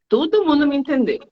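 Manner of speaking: a pleased student claiming success, pitched high; proud student. Retold or imitated. Student tells teacher everyone understood, pitched high. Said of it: "e eles falam assim".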